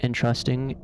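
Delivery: "Entrusting" stressed on TRUST; second-syllable stress. Shown as a demonstration. Explaining the difference, "Entrusting" stressed on TRUST. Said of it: "stresses the second syllable".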